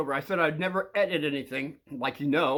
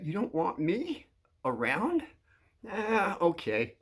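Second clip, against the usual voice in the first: slow question in mock disappointment; straight-faced; 2 semitones higher, 3 dB quieter, slower than usual. Asking the kid who rejects him, straight-faced. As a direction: keep a straight face, slowly. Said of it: "with a straight face".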